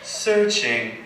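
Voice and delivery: hammed-up English accent, slow and mournful; a mock-tragic poem read in a put-on English accent; fake English accent. Poet reading his emo poem to the crowd in a fake English accent. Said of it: "if I do a fake English accent".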